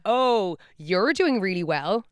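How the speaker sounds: slow, lifted mock admiration; acted remark. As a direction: draw out the remark as if impressed. Voices a remark in retold exchange.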